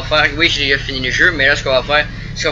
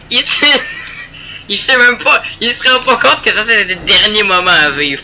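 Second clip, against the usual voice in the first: pitié moqueuse; 5 semitones higher than usual. Pretend. Pitié moqueuse pour la victime.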